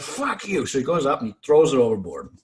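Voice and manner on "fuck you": high-pitched imitated outburst; mock angry retort. Pranked sailor to laughing shipmates, high mock-angry retort. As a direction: throw it back in a high, offended voice.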